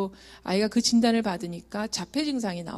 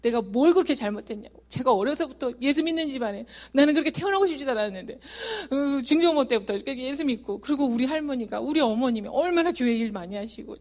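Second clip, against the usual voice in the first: louder, higher remonstrance with God; retold aggrieved protest; 4 semitones higher, 3 dB louder than usual. Mother pleading her family's faith to God, indignant protest. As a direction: argue the case, building grievance.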